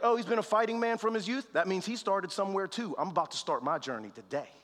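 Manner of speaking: quick, rising dawning insight; David's sudden realization. Retold or imitated. Young David turning Saul's warning into hope, quick eager realization. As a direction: catch it like a lightbulb moment. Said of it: "But David was like".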